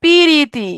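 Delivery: পিরিতি with an i breaking the p-r cluster; পিরিতি, three syllables; vowel-split preeti. Shown as a demonstration. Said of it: "প্রীতি থেকে কি হয়ে গেল?".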